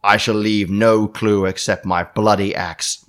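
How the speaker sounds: slow, menacing villain read; a hint of a sinister letter-writer; evil voice. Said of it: "I'm doing the evil voice by accident".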